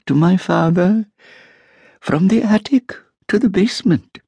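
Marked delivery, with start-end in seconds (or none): 2.0-4.2 put-on a high, hushed old woman's whisper; whispered boast of an old landlady. A narrator's reading. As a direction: breathe it like a treasured secret. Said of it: "measured whisper".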